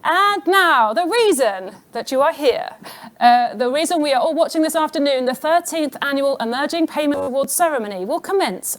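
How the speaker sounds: lifted, formal MC delivery; big opening, then settling into the link; awards host announcement. Real, not acted. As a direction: announce the ceremony to the room. Host introduces the awards ceremony.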